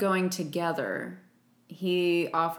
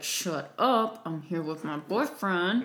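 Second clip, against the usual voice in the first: mock indignant girlfriend; slower than usual. Jane telling him off by her boyfriend, mock indignant. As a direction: act out her scolding. Voicing the film's annoyed girlfriend.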